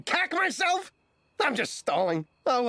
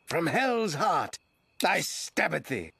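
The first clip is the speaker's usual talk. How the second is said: dramatic Shakespearean; 5 semitones lower, slower than usual. Acted. Hero's dramatic line in play.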